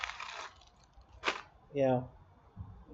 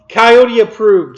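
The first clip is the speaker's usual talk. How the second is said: laughing; 4 semitones higher, 12 dB louder, much slower than usual. Real, not acted. Joke about cartoon batteries.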